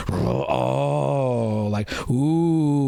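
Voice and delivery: low disappointed groan from the crowd; audience grumbles. Retold or imitated. Crowd grumbling at an edgy joke, mock groan. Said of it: "they get the grumbles".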